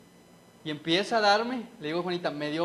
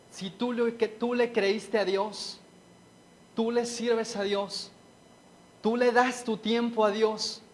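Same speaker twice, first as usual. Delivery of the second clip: enemy's tempting voice; 2 semitones higher, slower than usual. Retold or imitated. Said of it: "Y me decía".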